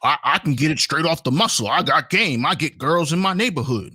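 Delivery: put-on light African American accent; lightly voiced African American accent; black voice. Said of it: "let me put on my black voice".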